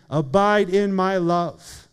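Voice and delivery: slow and deliberate, leaning on each word; a personal plea, drawn out; slow earnest appeal. Shown as a demonstration. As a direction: press the invitation home to one listener, slowly. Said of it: "So Alex, Jesus is saying".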